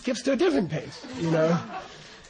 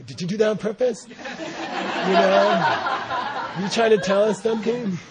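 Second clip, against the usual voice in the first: laughing question. Retold or imitated. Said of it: "you can try to get it out of them".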